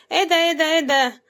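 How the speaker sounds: a quick high, loud surprised exclaim. Real, not acted. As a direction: gasp out the words at the find. Finds money inside the ball. (دهشة مفاجئة بصوت عالي)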